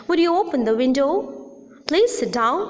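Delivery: polite request with a rising tone. Shown as a demonstration. Teacher demonstrating polite rising requests. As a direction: ask gently with a rising end. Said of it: "Rising tone is also used in polite requests".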